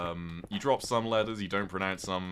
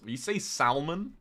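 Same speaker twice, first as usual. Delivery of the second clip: incredulous; 9 semitones higher, 4 dB louder, slower than usual. Real, not acted. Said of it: "Please. Leave".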